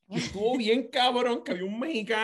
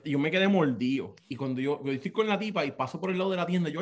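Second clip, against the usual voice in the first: usual speaking voice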